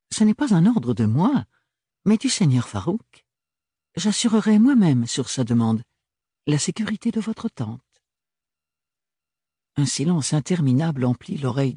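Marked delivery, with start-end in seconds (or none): 0.1-8.0 high, emphatic nobleman; pressing the point politely; insistent Archibald. Acted. Archibald invoque Farouk.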